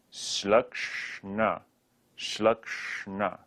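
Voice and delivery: Shlakshna with curled-tongue second sh and n; plain first sh in Shlakshna, then curl the tongue for "kshna"; retroflex Shlakshna. Shown as a demonstration. Teacher practising retroflex sounds, careful Shlakshna. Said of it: "second sh and n are retroflex".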